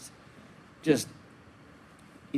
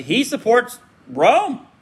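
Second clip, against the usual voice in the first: accusing opponents; 5 semitones higher, 3 dB louder than usual. Retold or imitated. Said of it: "they would immediately come out and say".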